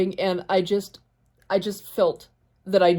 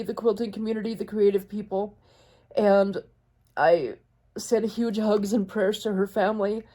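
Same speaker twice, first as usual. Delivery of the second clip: tearful. Real, not acted. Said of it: "now I'm gonna cry again".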